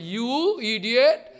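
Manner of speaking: slow mock scold. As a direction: scold slowly. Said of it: "Then Panda speaking".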